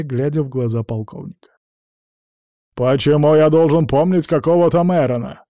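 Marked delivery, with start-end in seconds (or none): 2.7-5.5 loud, high indignant protest. A narrator's reading. Clark denies knowing Meyron, loud indignation. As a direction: bristle with outrage. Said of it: "возмутился Кларк".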